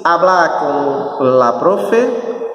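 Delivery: "hablar" stressed on its final A, a-BLÁ; "hablar" ending on a strong A; stress on last A. Shown as a demonstration. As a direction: lean on the last syllable of "hablar". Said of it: "com a sílaba tônica no último A".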